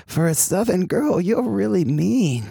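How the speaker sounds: put-on a light Queens accent, wounded. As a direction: Steve from Queens, mildly hurt, in a Queens accent. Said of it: "that is an accent".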